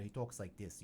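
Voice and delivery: put-on a touch of Minnesota accent; lightly put-on Minnesota talk. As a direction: imitate a Minnesotan. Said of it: "talks like he's from Minnesota".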